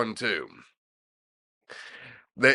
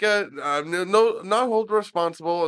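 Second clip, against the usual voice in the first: higher-pitched mock Indian accent; 7 semitones higher than usual. The speaker on the prank call as the manager, mock Indian accent. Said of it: "Parsi or Indian accent".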